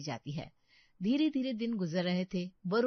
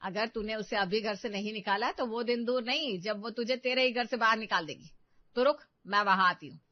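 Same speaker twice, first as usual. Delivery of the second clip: mildly heated, louder warning; urgent scolding; 6 dB louder than usual. Acted. Mother warning her daughter about the mother-in-law, urgent scolding. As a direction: egg her on, firm and pushy.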